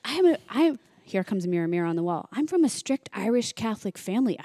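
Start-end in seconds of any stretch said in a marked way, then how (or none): 0.1-0.8 flustered stammer. Retold or imitated. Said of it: "He's like". 2.3-4.4 protesting. Retold or imitated. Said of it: "He's like".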